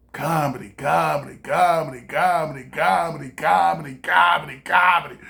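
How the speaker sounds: nagging inner voice. Retold or imitated. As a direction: chant it over and over, swelling at the end. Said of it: "a little voice in my head like".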